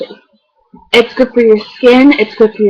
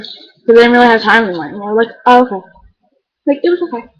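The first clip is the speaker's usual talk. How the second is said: chewing gum; faster than usual. Real, not acted. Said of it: "Sorry, I'm chewing gum".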